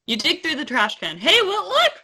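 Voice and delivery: hint of a film character, lifting at the end; Korg. Retrying game text for co-host, light character impression. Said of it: "Read, read this as Korg".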